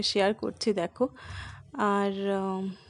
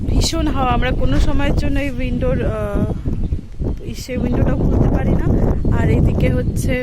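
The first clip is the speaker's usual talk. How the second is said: loud, raised voice against gusts; shouting over wind; 2 semitones higher, 7 dB louder than usual. Real, not acted. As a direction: call out over the wind noise. Filming outside in strong wind.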